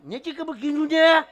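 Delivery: high, loud protest; exasperated insistence. Acted. Forgetful man answers God's questions, high exasperated yell. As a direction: pitch it way up and blare the ending.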